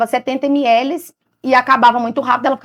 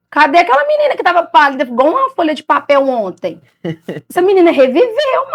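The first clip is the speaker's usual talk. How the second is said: amazed doctor; 5 semitones higher, 3 dB louder than usual. Retold or imitated. Doctor amazed at the girl's recovery.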